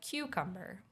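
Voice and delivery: "cucumber" as KYOO-kum-ber; "cucumber" with stress up front. Shown as a demonstration. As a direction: lean on the first syllable of "cucumber". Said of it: "that's, like, how we would say it".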